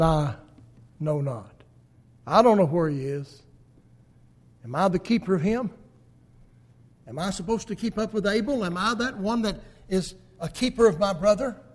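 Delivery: mock-arrogant Cain brushing God off. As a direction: toss the question back with scornful arrogance. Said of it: "in his arrogant attitude".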